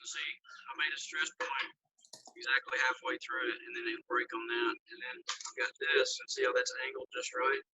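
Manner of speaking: garbled robotic phone voice; distorted by a bad connection. Real, not acted. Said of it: "Turn into a robot".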